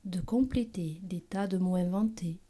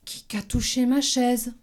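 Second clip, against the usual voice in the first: middle bear voice; 2 semitones higher than usual. Acted. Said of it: "s'écria à son tour Médiours".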